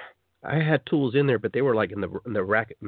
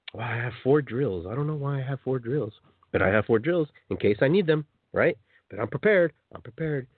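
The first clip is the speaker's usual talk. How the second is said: lightly voiced hoarder. Voicing a tool hoarder.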